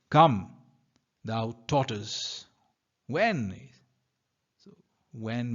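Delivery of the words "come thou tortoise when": impatient. Acted.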